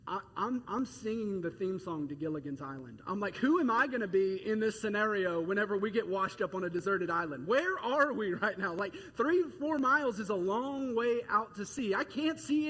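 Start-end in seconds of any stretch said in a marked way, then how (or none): 3.4-8.7 loud, half-joking panic on a small boat far out at sea; mock panic. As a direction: ham up the fear of being stranded. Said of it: "I'm freaking out on side".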